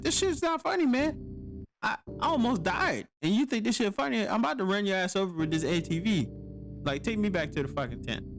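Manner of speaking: high, fast indignant rant; furious at the rescuer for laughing. Retold or imitated. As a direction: tell him off, rushing the words.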